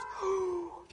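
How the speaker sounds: high, audible gasp. Acted. Possum hearing the snake's plight, startled gasp. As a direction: draw in a startled breath.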